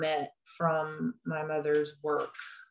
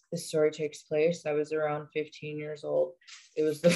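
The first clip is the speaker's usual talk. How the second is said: deadpan. Shown as a demonstration. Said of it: "we're going deadpan".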